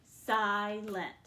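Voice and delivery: "Silent" in two even beats, si-lent; clapped-out syllables. Shown as a demonstration. Teacher claps out syllables for pupils, "Silent" in two beats. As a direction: punch each syllable of "Silent" separately. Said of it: "clap that out".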